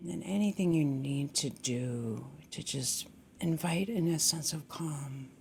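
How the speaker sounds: calm, gently guiding meditation voice; settled meditation guidance with long silences; guided meditation. Acted. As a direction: ease listeners into stillness, unhurried.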